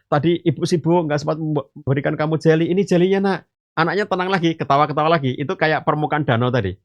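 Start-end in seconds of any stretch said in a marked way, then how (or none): 0.0-3.4 a lightly voiced apologising mother; apologetic mother. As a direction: coax the child gently, say sorry. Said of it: "Sambil minta maaf".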